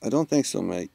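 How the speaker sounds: British accent slipping toward Australian; attempted British accent. Shown as a demonstration. Asked for British by a stream viewer, wobbly British-Australian accent. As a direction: have a rough go at British, landing near Australian. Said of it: "Can you do a British accent?".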